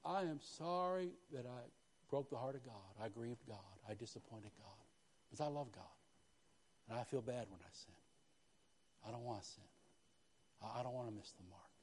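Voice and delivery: quiet, remorseful confession; soft remorse. Acted. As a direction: sound truly sorry, softly. Voicing godly sorrow.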